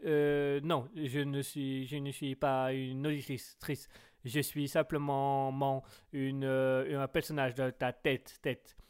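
mock Chinese accent, echoing the last syllable; hesitant little Chinese woman with a verbal tic; petite Chinoise. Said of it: "On va faire la petite chinoise". (accent chinois caricatural avec tic verbal)

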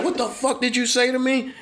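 high, laughing retold threat; mock tough-guy challenge. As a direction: play the drunk squaring up. Drunk guy confronts.

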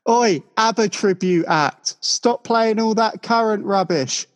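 lightly hammed-up angry punter calling from the crowd; mock heckler. Imagining the heckler at a gig.

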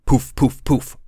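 punchy voiced poof sounds. Shown as a demonstration. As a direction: pop out loud poofs. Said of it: "pillow sound effect".

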